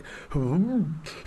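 mock about-to-vomit noise; queasy groan. Detective hearing it's duck, queasy groan. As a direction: imitate someone holding back sick. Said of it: "like he's gonna vomit".

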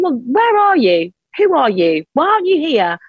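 high, pleading demands; demanding God. Retold or imitated. Grieving wife challenging God in an empty churchyard, high and accusing. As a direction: throw the questions upward at an absent God. Retold furious questions to God.

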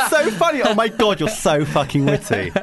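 high, loud, laughing gush; gushing fake flattery. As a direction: gush as if totally charmed. Acts swooning at a celebrity's line.

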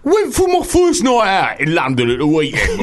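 hammed-up listener voice; unconvincing female emailer. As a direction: read it as a griping woman, unconvincingly. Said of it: "wasn't a very effeminate voice".

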